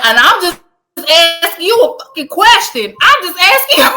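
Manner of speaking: rising, half-laughing protest; exasperated, laughing. Retold or imitated. Laughing as he protests to the airport worker. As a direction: insist while laughing at it. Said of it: "I'm like".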